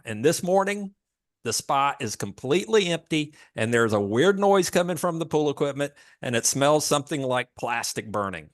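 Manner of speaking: panicked caller begging for help; frantic customer. Acted. Acted customer phone call.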